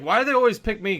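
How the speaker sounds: high, plaintive mock whine; whiny mock complaint. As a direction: whine it like a put-upon friend. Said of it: "And Tyler's like".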